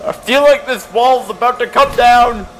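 loud, high alarmed call. Real, not acted. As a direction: warn loudly, alarmed. Alarmed at the wall.

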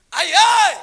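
laughing. Real, not acted. Laughs at Facebook posters.

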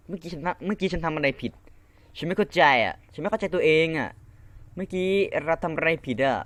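high, bewildered complaining; can't believe what just happened; baffled. Real, not acted. Gamer to himself after falling, baffled.

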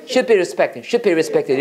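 should be를 '슛삐'로 붙여 respected까지; should의 d를 막고 이어서 읽기; 받침으로 발음. Shown as a demonstration. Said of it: "이렇게 하시면 되겠습니다". (should be respected, '슛삐'로 매끄럽게)

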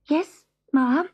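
high, timid little cat voice; trembling cat. A narrator's reading. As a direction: answer as if about to be destroyed. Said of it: "trembling and expecting to be destroyed".

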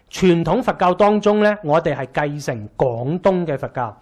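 usual speaking voice

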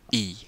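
E as a long "ee"; long I sound. Shown as a demonstration. Teaching Latin long I, E said "ee". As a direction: say E like the vowel in sheep. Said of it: "would pronounce a long I".

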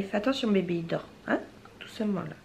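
whispering over a crib. Real, not acted. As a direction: hush the little one so the kitten sleeps. Hushing her baby near the sleeping kitten.

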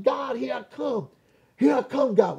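high, drawn-out mock yell. Convert running to the front to God, yelling. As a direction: call up to God while running. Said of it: "I'm yelling".

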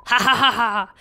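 measured mock evil laugh; villain laugh. Villain laughs at the humans, in mock evil laughter. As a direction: laugh like a scheming villain, lightly. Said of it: "he's laughing some more".

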